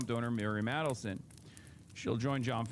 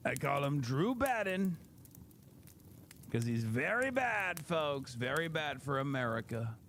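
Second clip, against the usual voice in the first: a hint of a blustering speechmaker; mock politician voice; 3 semitones higher than usual. Mock nickname, Trump-style catchphrase.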